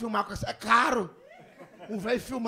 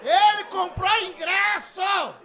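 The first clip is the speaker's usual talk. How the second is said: loud, high, slow comic shout; hammed-up incredulous ranting; outraged disbelief; 8 semitones higher, 5 dB louder, slower than usual. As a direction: stretch each phrase in exasperated amazement. Outraged disbelief at fan's question.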